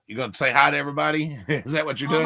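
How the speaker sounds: fast playful pet talk. Real, not acted. Urging his dog to greet viewers, playful pet talk.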